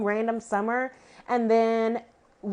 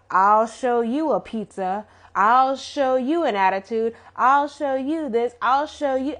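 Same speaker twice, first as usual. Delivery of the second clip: mocking catchphrase imitation; 4 dB louder than usual. Annoyed viewer imitating TJ's overused catchphrase, mocking. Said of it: "Man, get a new catchphrase".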